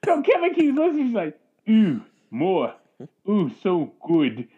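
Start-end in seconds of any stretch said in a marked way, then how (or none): 1.7-4.5 slow mock Canadian moaning; Canadian accent. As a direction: unromantic Canadian take on pleasure, spaced out. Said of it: "that accent, in terms of sexual".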